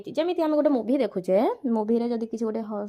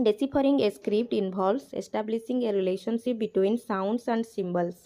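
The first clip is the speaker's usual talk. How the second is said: slow, deliberate reading of the English text aloud; slow textbook reading; much slower than usual. Acted. Teacher reads the textbook line aloud, very slowly. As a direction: read each word out slowly for the class.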